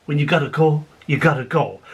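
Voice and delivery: reply with understated smugness; cat speaking. Acted. The cat agrees with dad, low deadpan reply. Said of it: "The cat said".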